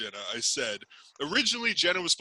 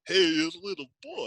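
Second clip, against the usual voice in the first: higher, clipped Walken-style quote; Christopher Walken impression; 6 semitones higher, 4 dB louder than usual. Host quoting the Walken impression, higher. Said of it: "the Christopher Walken".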